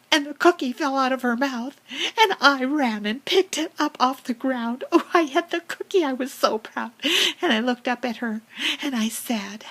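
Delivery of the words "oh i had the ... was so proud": much higher, louder, fast delight; quick high gleeful cry; triumphant. Acted. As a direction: squeal with glee at the prize. Grabbing the fallen cookie.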